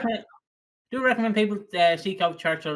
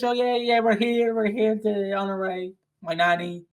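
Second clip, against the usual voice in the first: put-on drunk priest mumble. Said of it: "stumbling over these words".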